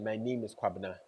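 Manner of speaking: the weaker way to say it; a little unsure introduction. Shown as a demonstration. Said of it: "a bit more confident than".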